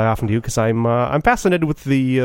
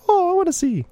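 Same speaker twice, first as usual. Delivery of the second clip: eager wife. Retold or imitated.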